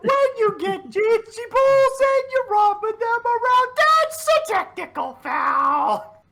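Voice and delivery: high, slow mock referee call. Joking at friends as a referee, mock call. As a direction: announce the foul like a ref.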